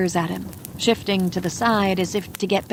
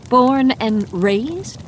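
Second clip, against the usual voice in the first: higher, slow, rising disbelief; "Born and raised?" drawn out with a rising question; incredulous echo; 4 semitones higher, 3 dB louder, much slower than usual. Acted. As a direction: repeat it back, stretching each word. Woman echoes in disbelief.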